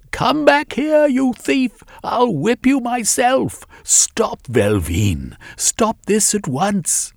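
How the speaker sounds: very high, loud frantic shriek; shrieking mother. A narrator's reading. Mother shrieking at her son as the ship lifts off. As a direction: scream at him to stop. Mother grabbing rope, yelling.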